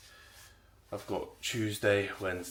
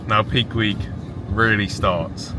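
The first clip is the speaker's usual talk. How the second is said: excited; 2 semitones higher, 9 dB louder than usual. Real, not acted. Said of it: "I'm excited".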